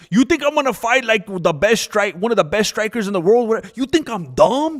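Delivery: mocking Aspinall. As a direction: drag it out like a smug fighter. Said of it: "He said something like".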